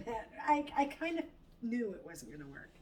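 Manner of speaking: ordinary delivery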